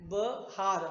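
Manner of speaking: बहार with long आ after ह; clear बहार. Shown as a demonstration. Teacher showing where आ falls in बहार. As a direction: lean on हा in बहार. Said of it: "ह के साथ मात्रा है आ की".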